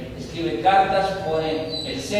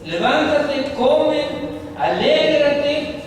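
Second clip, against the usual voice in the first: much higher, louder commands; commanding wife; 10 semitones higher, 6 dB louder, slower than usual. Acted. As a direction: rouse the sulking king, ordering him up. Wife commanding the king to rise. (esposa ordenando a gritos, mucho más aguda)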